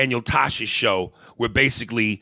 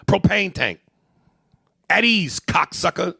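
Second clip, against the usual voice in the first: heated, higher-pitched roasting; indignant insults; 4 semitones higher than usual. Real, not acted. Comedian insulting the blocked fan's build, indignant. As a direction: roast him with indignant force. Angry insults at absent fan.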